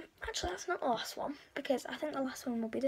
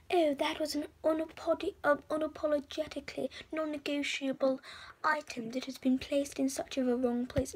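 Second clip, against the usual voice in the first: mock posh fancy talk; 2 semitones higher, 4 dB louder than usual. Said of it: "the stereotype is like".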